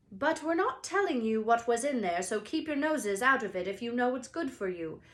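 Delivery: a hint of a snide goblin; goblin spokesman. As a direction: warn them off. Goblin quoted.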